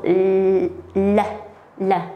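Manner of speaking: "l" held long, then short; isolated L sound. Shown as a demonstration. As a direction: demonstrate the "l" sound alone, drawn out first. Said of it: "the sound".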